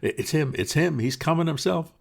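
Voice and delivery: high, loud crowd cry of alarm; shouting crowd. Acted. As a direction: yell it out as the mob spots him. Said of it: "voices shouted".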